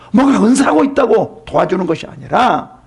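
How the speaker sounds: ordinary delivery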